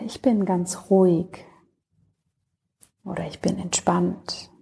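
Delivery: calm, unhurried Yoga Nidra voice with long pauses; settled, even meditation delivery, phrase by phrase; guided meditation. Acted. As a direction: guide the listener gently into rest, leaving space between phrases.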